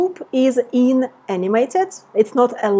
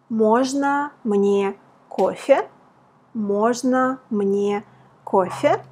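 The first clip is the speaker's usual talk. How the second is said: slow model phrase; slower than usual. Shown as a demonstration. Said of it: "for example".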